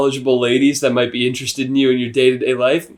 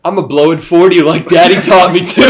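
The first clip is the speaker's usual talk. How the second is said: joking shout; 2 semitones higher, 4 dB louder than usual. Pretend.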